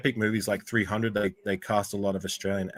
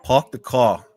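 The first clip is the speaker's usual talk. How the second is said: louder attempt at an American catchphrase accent; 2 semitones higher, 7 dB louder, slower than usual. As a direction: have a go at an American accent, projected. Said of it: "best American accent".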